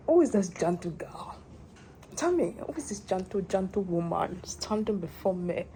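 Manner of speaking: hushed theatrical admiration; mock grand whisper. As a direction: marvel at yourself grandly.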